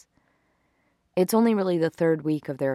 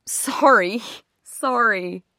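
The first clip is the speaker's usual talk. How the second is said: higher, louder sheepish apology; playfully contrite, voice raised; hasty apology; 5 semitones higher, 4 dB louder, much slower than usual. Acted. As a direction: apologize after being scolded by your lover. Boyfriend apologizes after pillow smack.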